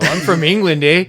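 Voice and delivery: mock English accent, badly faked. Co-host mocking actor's accent, bad English. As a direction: fake being from England, badly. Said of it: "it's not a good accent".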